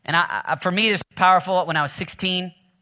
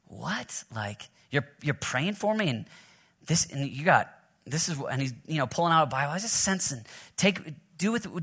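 stunned hush; 6 dB quieter than usual. Retold or imitated. Retelling stunned moment with pastor.

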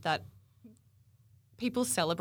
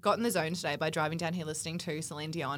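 slightly husky, strained from singing; a touch of hoarseness after belting in the car. Real, not acted. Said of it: "My voice is actually a little bit husky".

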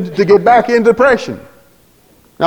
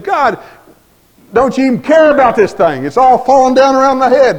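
desperate plea; 6 semitones higher than usual. Retold or imitated. Preacher retelling his prayer to God, anguished pleading. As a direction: beg God as if everything is collapsing.

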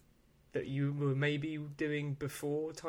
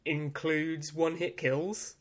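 slow dramatic reveal; 3 semitones higher, 4 dB louder, slower than usual. Acted.

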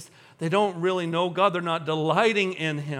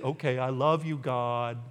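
low, softer mock-obedient declaration; dutiful, unconvincing; 7 semitones lower, 5 dB quieter than usual. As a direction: imitate grudging compliance. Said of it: "Now say it like you mean it".

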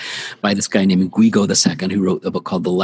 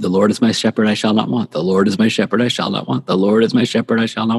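slow repeated recitation. Shown as a demonstration. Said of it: "you repeat it and repeat it".

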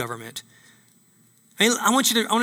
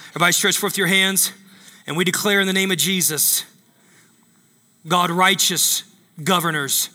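preaching prayer over the people; prayer declaration. Acted. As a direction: declare it like a pastor praying.

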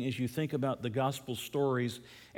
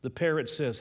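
normal talking voice

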